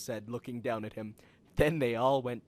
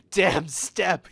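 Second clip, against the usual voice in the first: yell; 5 semitones higher, 5 dB louder than usual. A narrator's reading. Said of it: "he yelled".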